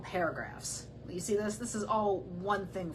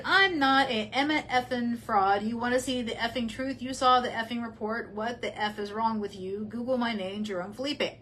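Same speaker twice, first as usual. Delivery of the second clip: mock angry quote. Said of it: "And then he said".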